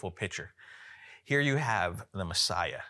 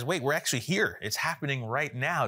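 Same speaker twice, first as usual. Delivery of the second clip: higher-pitched, mildly excited retelling; sudden realization; 5 semitones higher, 3 dB louder than usual. Retold or imitated. Preacher voicing disciples caught up in the moment, excited realization. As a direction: act out dawning amazement, lightly. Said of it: "and they realize".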